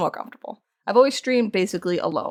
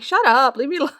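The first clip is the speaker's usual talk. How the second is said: higher-pitched mock-annoyed retort; retold protest; 6 semitones higher than usual. Streamer fending off teasing boyfriend, protesting. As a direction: push the teasing away, voice raised in pitch.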